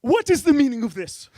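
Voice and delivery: loud, lordly demand; mock royal outrage; sheik. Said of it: "I kinda become the sheik".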